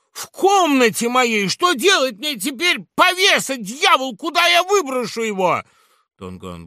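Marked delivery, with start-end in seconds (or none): 0.1-5.6 high, loud flustered scolding; panicked annoyance; Laura scolds Don Guan over the body; Laura, exasperated. Acted. Laura after the killing.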